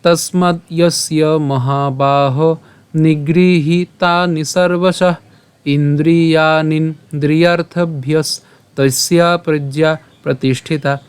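slow, measured Sanskrit verse; shloka recitation. Shown as a demonstration. Teacher presenting today's shloka to learners, slow recitation. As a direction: recite the verse with drawn-out long vowels. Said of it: "শুরু করে পাঠ করলে কেমন হচ্ছে?".

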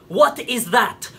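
slow, spaced-out incredulous question; slowly, with mounting outrage; slow indignation. Acted. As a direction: draw out each word in disbelief.

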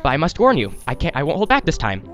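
speed talk. Acted. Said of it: "let me speed talk while I'm being Salesman Pal".

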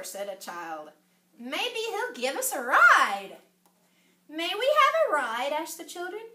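lively storybook voice, swinging pitch; story reading to children. A narrator's reading. Reader telling children about the dinosaur ride, animated storytelling. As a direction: perform each character's line for young listeners. Reads picture book aloud to children.

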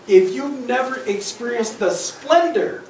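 grandiose pigeon. Acted. Pigeon praising his hot dog to the duck, grandiose. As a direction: savour each word like a lightly voiced pigeon.

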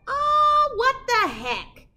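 high, loud burst of mock surprise; surprised gasp. Real, not acted. Reader reacts to the picture for the children, high mock surprise. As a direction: act shocked at the page.

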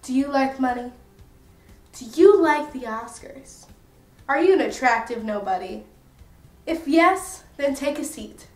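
hammed-up ad announcer pitch; mock commercial voice. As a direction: sell it like a cheesy TV ad. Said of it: "let's cue the commercial".

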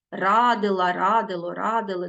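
радила, радило, радили stressed on first syllable РА; stress on root. Shown as a demonstration. Teacher shows pupils root stress, stressing РА in радила, радило, радили. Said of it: "наголос падає на корінь".

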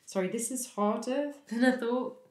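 apologetic, with a small uneasy laugh; awkward laugh. Acted. Speaker struggling with the questions apologises, laughing uneasily. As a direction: laugh off the discomfort mid-sentence. Overwhelmed, laughs off her discomfort.

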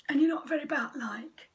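airy, high batfish voice; bubbly batfish. Acted. Batfish teasing the squid, airy and high. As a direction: breathe it out like bubbles. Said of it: "bubbled a batfish".

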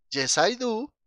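"yes I do" fuerte, agudo y bien articulado; pronunciación modelo. Shown as a demonstration. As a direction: haz oír claramente "yes I do" a la clase. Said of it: "escuchen cómo suena". ("yes I do" enfático, de maestro de inglés)

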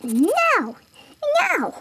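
high, drawn-out noes; mock refusal. Circle Head refusing to try again, high mock wail. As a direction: wail each no as a pretend protest. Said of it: "Circle Head was all like".

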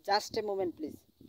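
very slow, high English phrase; very slow teaching demo. Shown as a demonstration. Teacher modelling a hold request for students, slow and high. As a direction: lift it and say each word slowly. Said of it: "তখন আপনি বলবেন".

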